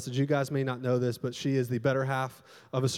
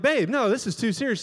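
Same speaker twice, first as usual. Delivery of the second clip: higher-pitched, insistent protest; exasperated protest; 8 semitones higher, 3 dB louder than usual. Retold or imitated. Husband protesting to his wife during sermon prep, exasperated. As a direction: plead the case in a raised pitch.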